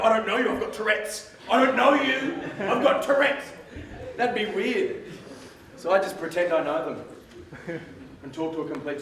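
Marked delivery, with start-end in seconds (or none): 0.0-3.4 hurried explanation. Retold or imitated. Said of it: "I go".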